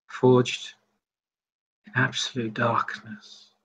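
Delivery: halting, with long searching pauses; haltingly remembering. Acted. Vampire recalling the shadow for her listener, halting.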